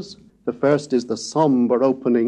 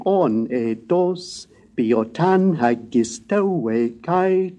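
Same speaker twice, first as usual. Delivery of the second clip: rhythmic ancient Greek chorus chant, long syllables drawn out; pulsing, pitch-accented choral verse; excited lyric recitation; slower than usual. Shown as a demonstration. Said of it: "This is a swifter, more excited piece of verse".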